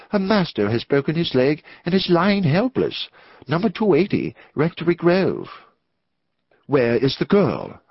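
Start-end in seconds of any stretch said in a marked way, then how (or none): 6.6-7.6 pointed, sharp delivery. The narrator, told about a messenger girl, asks sharply. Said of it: "I asked sharply".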